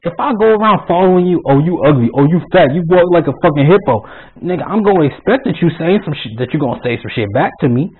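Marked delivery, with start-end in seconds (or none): 1.5-4.1 louder, acted-out jeering; mock taunting. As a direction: hurl pretend insults, a touch forceful. Acting out taunts while following someone.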